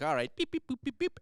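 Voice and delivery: robot voice. Retold or imitated.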